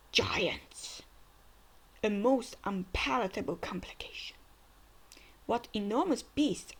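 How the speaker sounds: breathy whispered lines, no voice; hushed villain read. Acted. Reading a villain's subtitles to viewers, whispered. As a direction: read the villain's menace under your breath.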